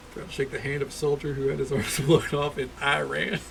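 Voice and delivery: amused mock-presidential voice; George Bush impression. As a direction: do George Bush holding back a laugh. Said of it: "very fun way of talking".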